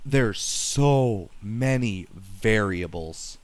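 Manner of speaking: glitchy robotic voice; mic distortion sounding like a robot. Real, not acted. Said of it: "you sound like a robot".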